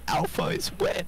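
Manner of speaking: put-on cutesy uwu baby voice, lightly done; a hint of cutesy baby talk over the radio. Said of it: "if you're gonna do the fucking uwu voice".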